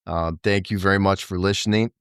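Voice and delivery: talking around a retainer; slightly lisped through a retainer; wearing a retainer. Real, not acted. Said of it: "I just put my retainer in".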